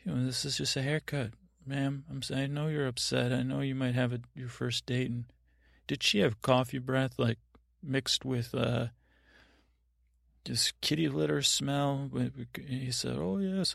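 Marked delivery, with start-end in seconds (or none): 0.0-5.1 calm stand-up reply. Retold or imitated. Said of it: "a curl bump and say". 13.2-13.7 surprised. Retold or imitated. Barber's sudden recognition.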